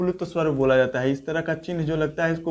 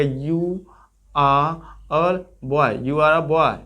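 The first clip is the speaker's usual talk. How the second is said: British English; much slower than usual. Shown as a demonstration. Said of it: "इस तरह बोला जाएगा".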